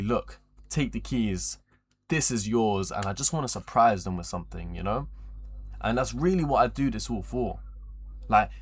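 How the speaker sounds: normal talking voice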